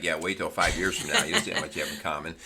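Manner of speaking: facetious aside with a laugh; mock-agreeing, amused and giggly; giggling. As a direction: chuckle knowingly through the words. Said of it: "we're, like, giggling".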